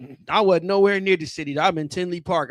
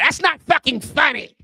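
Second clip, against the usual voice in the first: mock offended white audience; 6 semitones higher than usual. White folks got quiet.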